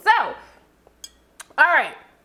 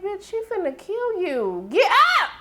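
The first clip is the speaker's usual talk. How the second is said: yelling at the TV; 7 semitones higher, slower than usual. Retold or imitated. Warning the bear that Lottie will kill it, yelling. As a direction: shout up at the screen to save it. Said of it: "I was yelling at the T V".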